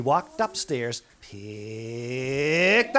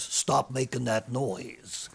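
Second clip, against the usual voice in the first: stern principal; 3 semitones lower, 4 dB quieter, slower than usual. Acted. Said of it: "He looks at the teacher and says".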